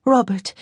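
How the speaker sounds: Robert the English way, ROB-ert; English Robert, hard t. A narrator's reading. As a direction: say Robert plainly in English, stress first. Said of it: "said it again with its English pronunciation".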